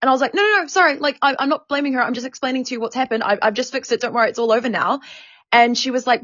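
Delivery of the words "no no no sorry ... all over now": higher, hurried placating; flustered retold apology. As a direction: imitate yourself hastily backpedalling under a telling-off. Retold apology to scolding manager.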